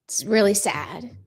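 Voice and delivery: choked-up, breaking whisper; voice cracking. Real, not acted. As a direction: voice cracking with real sadness. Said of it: "It just makes my voice crack".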